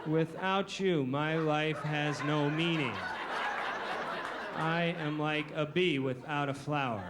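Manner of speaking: slow, mock-sincere love line; slow, stilted attempt at romance; feigned sincerity. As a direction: recite it like reading off a teleprompter. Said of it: "and appear sincere".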